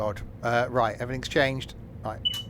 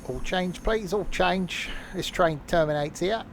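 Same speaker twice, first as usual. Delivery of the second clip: mock train announcer call, pitched higher; station announcer; 7 semitones higher, 4 dB louder than usual. Mimicking a station announcer to the passengers, higher-pitched call. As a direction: sing it out like a platform announcer.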